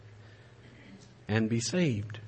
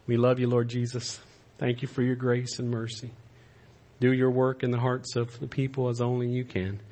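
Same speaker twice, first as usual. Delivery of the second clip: closing prayer. Acted.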